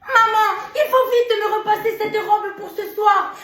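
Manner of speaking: imitating the daughter. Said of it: "pour satisfaire Sa Majesté".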